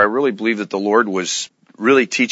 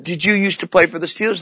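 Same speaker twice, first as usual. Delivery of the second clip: a hint of a curious little girl, pitched higher; young girl asking; 7 semitones higher than usual. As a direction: ask sweetly like an eleven-year-old fan. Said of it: "And she said".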